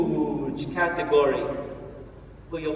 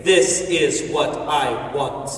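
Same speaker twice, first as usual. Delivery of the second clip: slow, lower, firm declaration; 6 semitones lower, 4 dB louder, much slower than usual. Retold or imitated. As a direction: declare it slowly and firmly. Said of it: "as soon as you say".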